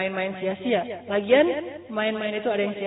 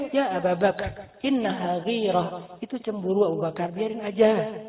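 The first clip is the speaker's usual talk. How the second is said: calming reassurance; 2 semitones lower, 4 dB quieter than usual. Retold or imitated. Prophet calms his angry father-in-law, gentle and unhurried. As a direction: talk him down gently.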